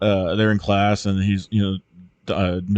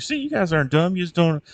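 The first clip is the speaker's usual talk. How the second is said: mock teacher pep talk; 7 semitones higher than usual. Teacher speech retold mockingly.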